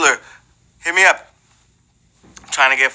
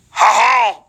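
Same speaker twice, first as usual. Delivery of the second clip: French chef laugh; 5 semitones higher, 4 dB louder than usual. Acted. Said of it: "I kinda do the chef".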